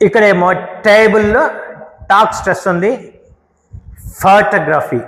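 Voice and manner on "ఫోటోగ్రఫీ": ఫోటోగ్రఫీ with a strong opening ఫో; stress on first syllable. Shown as a demonstration. Teacher contrasting stress, first syllable of ఫోటోగ్రఫీ made strong. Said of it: "ఫోక్ stress ఉంది".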